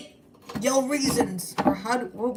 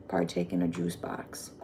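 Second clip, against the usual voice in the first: much lower, softer pompous phrase; hammed-up fancy voice; mock posh; 8 dB quieter than usual. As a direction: say partake like a grand lord. Drops to deep posh tone.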